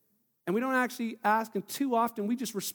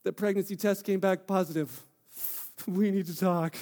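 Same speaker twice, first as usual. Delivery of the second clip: scared. Shown as a demonstration. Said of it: "Or they're scared".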